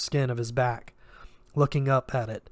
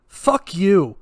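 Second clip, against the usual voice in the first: high furious shout; furious yell at the attacker; 7 semitones higher, 11 dB louder than usual. Acted. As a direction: scream it at him with everything. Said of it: "she shouted".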